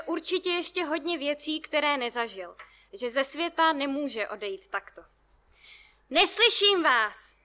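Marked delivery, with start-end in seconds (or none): 6.1-7.4 loud, slow shout from afar; shouting back. A narrator's reading. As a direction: yell back from the balcony railing. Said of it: "volá zpět". (pomalé hlasité volání z balkonu)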